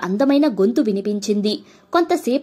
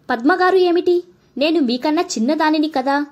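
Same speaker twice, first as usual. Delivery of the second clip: playful protest; 5 semitones higher than usual. Acted. Girl protests at formal address.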